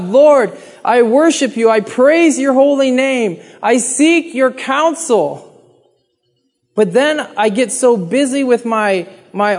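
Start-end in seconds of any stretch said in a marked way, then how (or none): 0.0-5.5 lightly acted prayerful call; acted crying out. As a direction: re-enact calling out to the Lord, slowing at the end. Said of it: "I cry out to God".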